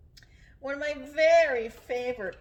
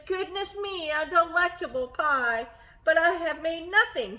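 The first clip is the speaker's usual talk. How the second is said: sighing Bear; 5 semitones higher, 4 dB louder than usual. Acted. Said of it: "he adds with a sigh".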